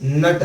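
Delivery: नट with a held n into a full t; नट as one short nasal-plus-t sound; half n, full t. Shown as a demonstration. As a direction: hum briefly on the n of नट, then release the t. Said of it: "आधा न और पूरा ट".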